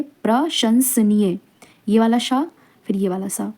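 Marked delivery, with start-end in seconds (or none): 0.0-1.4 प्रशंसनीय slowly, split as प्र, शंस, नीय; slow, broken up. Shown as a demonstration. Teacher asks for close attention, slow and broken up. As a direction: break प्रशंसनीय into careful pieces. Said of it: "देखिए इसको ध्यान से देखिए".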